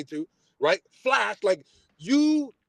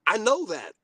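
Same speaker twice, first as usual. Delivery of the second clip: exasperated; 3 semitones higher than usual. Retold or imitated. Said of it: "I say it again".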